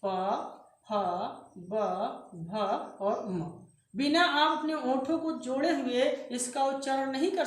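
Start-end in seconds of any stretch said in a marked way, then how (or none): 0.0-3.4 प, फ, ब, भ, म sounded separately, lips pressed together; demonstrated consonants. Shown as a demonstration. Teacher sounds out lip consonants, separate and clear. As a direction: sound out the lip row for the class. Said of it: "इसको जब देखिए उच्चारण करेंगे तो".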